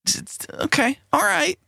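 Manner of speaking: squawky high bird voice; parrot voice. Acted. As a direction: talk like a parrot. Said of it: "use your parrot voice to tell me that".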